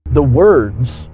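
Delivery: "words" held and rising at the end; stress on words. Shown as a demonstration. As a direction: lean on "words" so it lands. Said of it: "and I emphasize that word".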